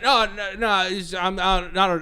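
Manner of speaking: stammering, half-finished mock excuses; mumbled backpedalling, retold; imitated mumbling. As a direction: imitate someone fumbling through a denial. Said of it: "he's, like, mumbling".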